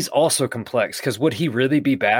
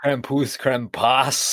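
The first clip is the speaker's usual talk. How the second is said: put-on trying out "Krampus" in a German accent; German grandma accent; 2 semitones higher, much slower than usual. Co-host imitating the movie's German grandma, German accent. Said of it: "That's how the German grandma says it".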